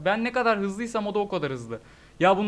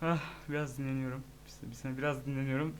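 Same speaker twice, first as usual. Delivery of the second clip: resting, softer; 6 semitones lower, 13 dB quieter than usual. Real, not acted. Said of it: "biraz dinleneceğim".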